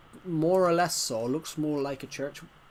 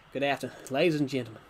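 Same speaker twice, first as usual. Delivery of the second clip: put-on American accent; faster than usual. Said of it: "Can you make an American accent?".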